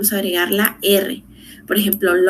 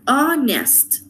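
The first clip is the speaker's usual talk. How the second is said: "Honest" split into two beats, HON-EST, higher pitched; "Honest" in two separated syllables, falling at the end; 5 semitones higher than usual. Shown as a demonstration. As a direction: sound out "Honest" one syllable at a time. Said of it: "dos sílabas".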